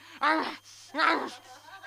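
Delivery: loud, high mock-feral noise; imitated crazed snarl. Bag-biter right next to Wall Street guy, loud crazed snarl.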